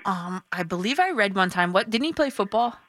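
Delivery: muffled behind hands; hands over mouth. Real, not acted. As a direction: talk through covered mouth. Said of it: "I have my hands over my mouth".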